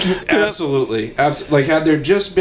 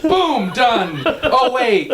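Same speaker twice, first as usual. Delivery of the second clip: mock abrupt decision; 9 semitones higher, much slower than usual. Mimics friend's abrupt text replies.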